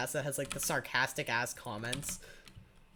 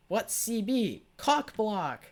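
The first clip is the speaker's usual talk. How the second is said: high, loud mock class chant; mock yelling; 9 semitones higher, 6 dB louder, much slower than usual. Classmates yelling a nickname in the middle of class, mock yell. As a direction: call it out like a kid yelling in class. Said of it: "practically yelling that in the middle".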